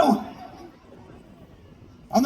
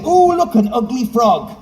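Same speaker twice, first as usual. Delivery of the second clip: demo princess line; 3 dB louder than usual. Shown as a demonstration. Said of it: "And say".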